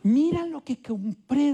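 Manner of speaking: a lightly voiced proud mom; proud mother showing off. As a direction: show off the purchase eagerly. Mother proudly shows son a purchase.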